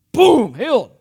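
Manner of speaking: loud, high burst of triumph; triumphant shout. Acted. Missionary proves his message to the doubter, triumphant shout. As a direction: slam it down like a miracle just landed. Acted missionary shows a healing.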